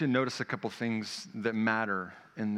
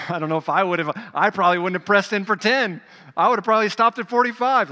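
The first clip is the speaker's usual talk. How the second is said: laughing confession; 7 semitones higher, 10 dB louder than usual. Real, not acted.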